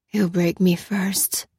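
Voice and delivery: slow, laboured slurring; slurred speech. A narrator's reading. Drugged prisoner doubts he will be freed, slurred. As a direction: drag the words out with effort. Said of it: "His words were slurred and sounded difficult".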